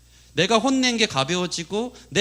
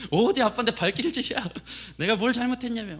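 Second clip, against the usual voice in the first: indignant father's telling-off, pitched up; mock scolding; 6 semitones higher than usual. Dad telling son off for kicking him, mock indignant scolding. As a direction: scold the boy in raised, retold outrage. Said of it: "혼냈어요".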